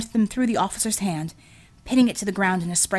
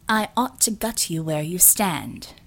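mild threat; 2 semitones lower than usual. Acted. Shakti threatening the officer.

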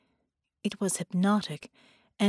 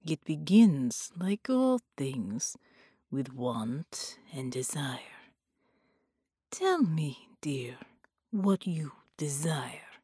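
seductive sorcerer whispering; 4 semitones lower, slower than usual. Acted. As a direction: draw her in, word by word. Bela hushed seduction.

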